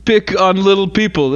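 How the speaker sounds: mock vice president. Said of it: "Isn't that what she said?".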